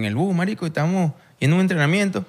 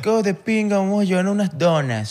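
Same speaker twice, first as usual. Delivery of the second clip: higher-pitched mimicking of donut fans; mocking enthusiasm; 5 semitones higher than usual. Player mocks teammates who bring donuts for birthdays, mock enthusiasm. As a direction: put on a high, gushy voice to mock them.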